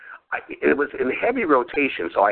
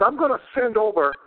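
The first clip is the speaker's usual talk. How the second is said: imitating Jimmy; 4 semitones higher than usual. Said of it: "He says".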